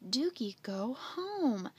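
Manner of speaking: slow command to a dog; calling out. Acted. Andy ordering the following dog home, calling out. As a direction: stretch out the order, calling it across.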